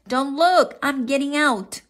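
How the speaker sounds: shouting. A narrator's reading. Froggy warning mother as he climbs out, high shout. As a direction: call it out urgently. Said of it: "he s-, shouted".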